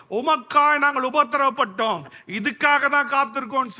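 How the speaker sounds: loud, ringing proclamation of Christ's coming; fervent preaching. Real, not acted. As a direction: preach it with mounting force, phrase by phrase. Preaches the second coming with force. (உரத்த குரலில் உணர்ச்சிமிக்க பிரசங்கம்)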